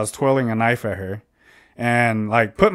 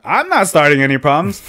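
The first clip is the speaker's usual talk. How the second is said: louder, higher-pitched denial; retold heated protest; 4 semitones higher, 5 dB louder than usual. Answering the dad's plea, heated retold protest. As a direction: re-enact an indignant comeback.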